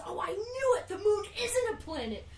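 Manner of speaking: high, loud, triumphant exclaim; mock triumphant shout. Lady on shopping channel, suddenly triumphant, high mock shout. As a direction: blurt it like a revelation.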